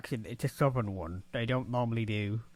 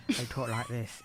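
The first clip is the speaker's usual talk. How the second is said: imitated southern English accent, a bit softer; 5 dB quieter than usual. Shown as a demonstration. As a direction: show how southern England talks. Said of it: "from the south of England".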